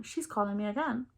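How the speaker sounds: breathy dramatic whisper; whispering the suspense. Real, not acted. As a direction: drop to a hushed, tense whisper. Dramatic moment, mom calling back.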